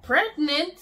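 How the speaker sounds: retold shock, rising at the end; disbelieving question. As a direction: say it like you can't believe it. Repeats doctor's news in disbelief.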